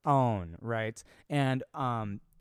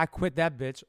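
normal talking voice

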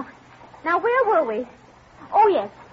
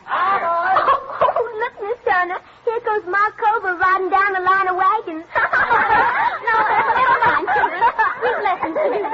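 giggly teacher; 3 semitones higher than usual. Acted.

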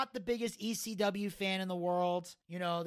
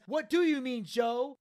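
demanding; 4 semitones higher, 5 dB louder than usual. Retold or imitated. Taz demanding.

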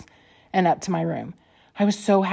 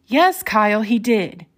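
raised voice, a touch louder; mildly raised admission; elevated tone; 3 semitones higher, 5 dB louder, slower than usual. A narrator's reading. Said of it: "in an elevated tone of voice".

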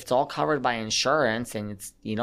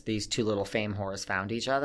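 laughing. Real, not acted. Teasing jab at the pair.

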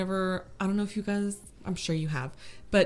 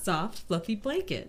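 customer service voice; 2 semitones higher, 3 dB quieter than usual. Shown as a demonstration. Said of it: "Say it like a customer service voice".

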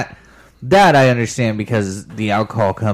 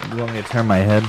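talking with the hiccups; words broken by hiccups; faster than usual. Real, not acted. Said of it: "Oh my God, I got the hiccups".

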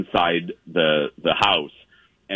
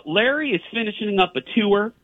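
a higher mock tour-guide voice; lightly voiced guide setting out the plan; imitating Sally; 11 semitones higher than usual. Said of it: "She goes".

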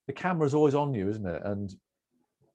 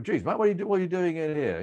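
higher, surprised Aussie groundsman; baffled groundsman; 7 semitones higher than usual. Retold or imitated. Australian groundsman puzzled by the reporter in the shed, higher. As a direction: ask why he's hiding in the shed. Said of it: "and so the groundsman".

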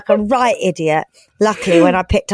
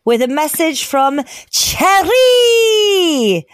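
announcer voice; 8 semitones higher, slower than usual. Real, not acted. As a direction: sell the message like a radio host. Announcing the message.

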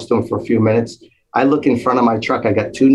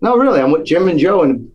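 lightly acted phone greeting, pitched up; higher voice, introducing yourself to someone on the phone; a rock guitarist; 6 semitones higher than usual. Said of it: "he takes the phone. He's like".

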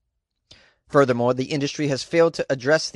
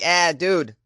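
lightly put-on Boston accent with a mild mock yell; a hint of a Boston accent; 2 semitones higher than usual. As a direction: play a mouthy Boston guy ribbing his buddy. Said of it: "I'm like".

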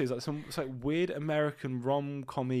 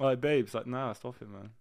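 London roadman, "Nah, stop it, man"; casual London roadman voice; London roadman accent; 4 dB louder than usual. Pretend. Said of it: "road man talk".

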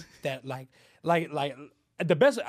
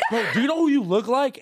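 laughing quote; 7 semitones higher, 6 dB louder than usual. Retold or imitated. Retold stranger, laughing.

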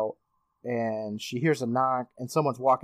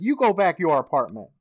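imitating Tybalt's accent; 3 semitones higher, 4 dB louder than usual. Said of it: "He probably sounds better than what I just said".

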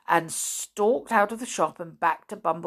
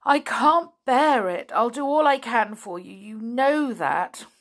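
upset; 3 semitones higher, 3 dB louder than usual. Acted. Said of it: "really very upset".

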